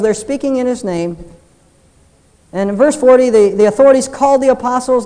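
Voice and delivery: loud preacher reading scripture; preaching at full force. Acted. Pastor preaching the apostles' beating to the congregation, loud. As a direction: proclaim the text to the whole church.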